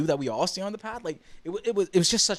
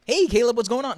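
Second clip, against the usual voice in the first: loud, higher mock-chummy hail; over-familiar greeting; 7 semitones higher, 8 dB louder than usual. Fan imagining hailing a rapper he doesn't know, over-familiar. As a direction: call out like you're old pals.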